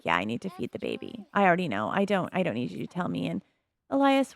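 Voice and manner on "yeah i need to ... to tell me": voicing annoyed sim. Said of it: "She's like".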